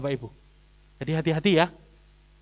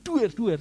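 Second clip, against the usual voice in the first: imitated banging; 2 semitones higher, 4 dB quieter than usual. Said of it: "Jebles nih".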